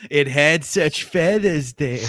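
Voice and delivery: slow, breathy explorer awe, laughing; hushed explorer wonder. Retold or imitated. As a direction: marvel at it like a jungle explorer. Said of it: "Explorer Tough voice".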